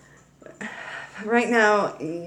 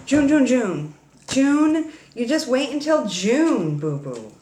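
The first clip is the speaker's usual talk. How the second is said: teasing singsong; 4 semitones higher than usual. Acted. Teasing singsong about June.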